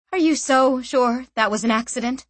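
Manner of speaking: put-on rasping, hurt young woman; raspy voice. A narrator's reading. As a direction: rasp it out, accusing. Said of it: "her voice rasping".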